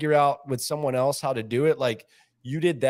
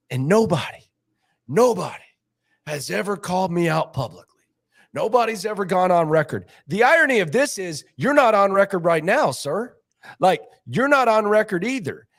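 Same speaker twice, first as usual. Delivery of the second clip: louder, higher indignant boss; mock indignant; 5 semitones higher, 4 dB louder than usual. Boss complaining to the staff, louder and higher. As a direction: puff up like he's been wronged. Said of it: "He goes, B Scott".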